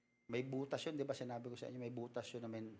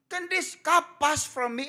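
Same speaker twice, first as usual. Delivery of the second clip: slow, high, pleading prayer; Jesus praying; 12 semitones higher, 14 dB louder, slower than usual. Retold or imitated. Jesus kneeling in Gethsemane begging the Lord, slow and pleading. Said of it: "Sabi nga ni Jesus Christ".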